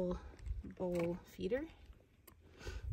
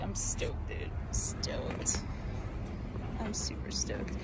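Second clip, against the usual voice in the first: excited whisper; slower than usual. Real, not acted. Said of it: "I'm pretty excited".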